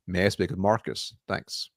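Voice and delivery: flat, falling, indifferent ask for Marcus; indifferent downward tone. Shown as a demonstration. Coach demos the gatekeeper call, indifferent and falling. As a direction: let each phrase drop at the end. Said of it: "Notice my tone. It's very indifferent, downward inflecting".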